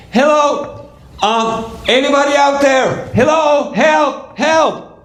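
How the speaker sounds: high, contained calls for rescue; acted yelling for help. Family trying again for a rescuer, high mock yelling. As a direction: call out high, as if up from a pit. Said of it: "he hears the yells".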